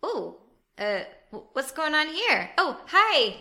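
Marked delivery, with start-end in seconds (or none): 2.6-3.4 bright greeting. Acted. Characters greet each other brightly.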